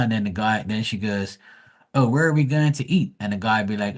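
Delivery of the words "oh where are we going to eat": lightly voiced girl, pitched higher; a hint of a higher girl's voice; girl on a date. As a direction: imitate her asking, voice raised. Voicing girl in TikTok skit.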